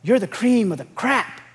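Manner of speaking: imitating dad's accented "crap" for crop; dad's Mexican accent. Dad encouraging his kids, mock Mexican accent. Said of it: "he had this accent".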